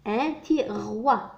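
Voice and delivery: tiroir stretched, syllables apart; slow model word. Shown as a demonstration. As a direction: say it slowly for the class. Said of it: "la syllabe roi".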